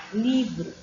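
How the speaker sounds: "livro" said as two measured syllables. Shown as a demonstration. Teacher showing a child's syllabic reading, "livro" syllable by syllable. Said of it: "cada sílaba, uma letra".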